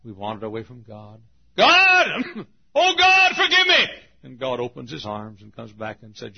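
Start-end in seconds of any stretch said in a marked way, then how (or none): 1.6-3.9 loud, high cry for mercy; desperate prayer. Acted. Sinner crying out to God for forgiveness, loud and high.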